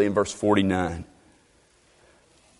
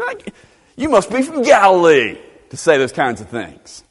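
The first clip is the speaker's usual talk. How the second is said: lightly acted scornful challenge; playing a scornful colleague; mock scorn; 4 semitones higher than usual. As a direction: needle him with a mock-incredulous question. Scornful colleagues' reply to Nicodemus acted out.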